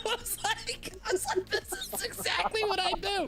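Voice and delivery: high squealing talk through laughter; laughing hard. Real, not acted. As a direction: squeeze the words out while cracking up. Cracking up retelling a funny clip.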